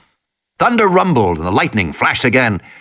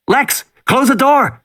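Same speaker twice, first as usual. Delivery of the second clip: urgent order; 13 semitones higher, slower than usual. Acted. Tim orders his sister.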